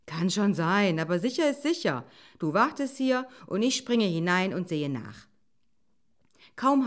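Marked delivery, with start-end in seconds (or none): 0.1-5.3 lightly voiced eager fox; brisk fox. Fox instructing the waiting wolf, lightly brisk. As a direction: take charge in a lively tone.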